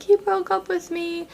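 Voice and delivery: high, slow mock wail; retold crying. Girl telling her best friend of the breakup, mock crying. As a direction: imitate a tearful whine, drawn out high. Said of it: "I start crying".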